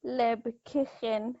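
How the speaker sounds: soft, slow Lebkuchen with hissed German CH; nearly correct CH. Shown as a demonstration. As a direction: carefully place the ich-sound in Lebkuchen. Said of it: "That's the closest you've been so far".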